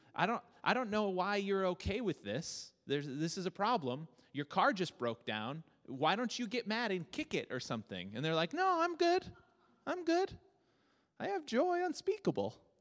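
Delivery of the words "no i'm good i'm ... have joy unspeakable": very high-pitched cartoon-style voice. Imitating a calm person whose car broke down, in a really high Mickey Mouse voice. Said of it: "That was a really high voice".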